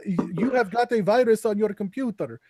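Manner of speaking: imitating a scam caller; scammer impression. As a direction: put on a scammer's phone voice. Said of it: "the scammers who'll call you and be like".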